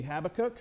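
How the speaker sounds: Habakkuk stressed on the first syllable, HAB-uh-kuk; Habakkuk with front stress and a short, weak ending; first pronunciation variant. Shown as a demonstration. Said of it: "depending on your, uh, pronunciation".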